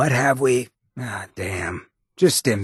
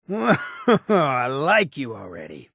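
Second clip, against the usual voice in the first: laughing; 3 semitones higher, slower than usual. Acted. Amused companion greeting.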